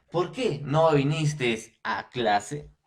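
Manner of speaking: "¿por qué no viniste a clase?" lento, con subida de pregunta en "qué"; léelo despacio como una pregunta clara al alumno; pregunta de ejemplo. Shown as a demonstration. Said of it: "Te estoy haciendo una pregunta". (tono de pregunta didáctica, lento)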